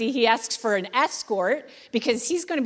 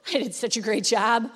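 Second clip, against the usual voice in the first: mock self-congratulation; 3 semitones higher than usual. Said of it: "Nehemiah doesn't say".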